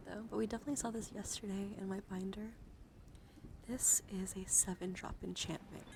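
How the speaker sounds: hushed ASMR card reading; breathy whispered card read. Acted. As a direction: whisper the card text close to the mic.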